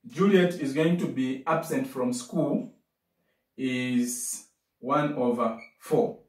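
slowed right down, rising on one; slow and careful. Shown as a demonstration. Teacher to class, slowly stressing the fraction. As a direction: spell the fraction out slowly, lifting at the end. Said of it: "please pay attention to this question".

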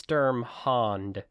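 Sturmhond said slowly as STURM-hond; correct pronunciation. Shown as a demonstration. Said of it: "but no, it".

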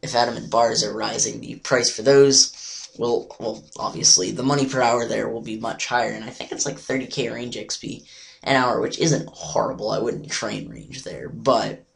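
hoarse, nearly lost voice. Real, not acted. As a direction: talk through a lost voice. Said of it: "I just kinda, like, lost my voice".

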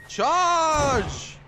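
drawn-out charge order; rallying battlefield yell; battle cry. Pretend. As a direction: call the troops to charge, holding the word. Battle charge call in game.

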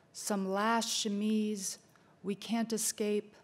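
measured, slow poetry reading; poem recitation. Acted. Speaker opening a talk with Kay Ryan's poem, measured recitation. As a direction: recite with deliberate pauses between phrases.

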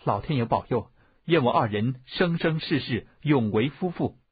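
devout prayer. A narrator's reading. Bride praying for eternal marriage, devout and earnest. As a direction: pray sincerely, giving each phrase weight. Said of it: "殷素素潜心祷祝".

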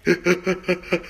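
Eddie Murphy style wheezing cackle; low breathy cackle; signature cackle. Acted. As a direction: break into that trademark hee-hee cackle. Laugh after racist joke.

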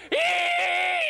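just hey. Retold or imitated. Comic mocking the far-country greeting as one high yelp. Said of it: "people go".

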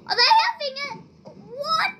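high astonished questions; surprised squeak. Real, not acted. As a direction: sound amazed. Surprised by players.

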